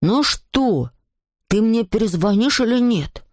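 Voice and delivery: drawn-out demanding call; mildly mock-holler an impatient question; shouting into phone. A narrator's reading. Alceste demands a call back from Nicolas, mild calling. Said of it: "Альцест закричал".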